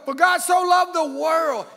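loud, high proclaiming of the verse; shouted verse. Acted. Preacher booming the famous verse to the church, loud. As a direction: boom the verse out.

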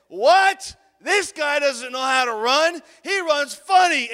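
loud, high mock outrage; scornful teacher. Teacher ripping a pupil before the class, loudly scornful. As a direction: imitate a teacher ripping into a kid. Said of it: "to rip me in front of the whole entire class".

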